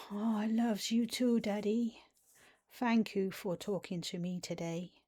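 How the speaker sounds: put-on lisping baby-voice thanks to Daddy; inner child baby voice. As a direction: thank him like a small child. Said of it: "that's how my inner child sounds".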